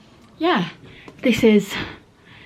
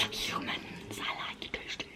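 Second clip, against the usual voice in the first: playful spooky whisper; hammed-up vampire whisper; mock vampire whisper; 20 dB quieter than usual. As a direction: breathe it like a hungry vampire. Playing vampire in costume.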